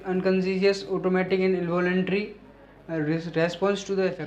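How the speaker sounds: slow, deliberate dictating voice; slow dictation. Shown as a demonstration. Teacher dictating a definition to students, slowly. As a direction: read the definition out word by word.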